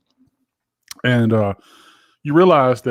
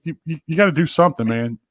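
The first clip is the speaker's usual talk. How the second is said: mock scolding. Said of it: "I would go".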